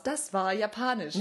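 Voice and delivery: slowly announced language name; children's show outro. Acted. Imitating the Maus show outro, measured announcer. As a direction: announce it like a TV voice-over. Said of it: "wie bei Sendungen mit der Maus".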